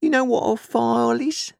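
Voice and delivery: high, pressing question; threatening convict. A narrator's reading. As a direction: quiz the boy with menace. Convict quizzes the boy.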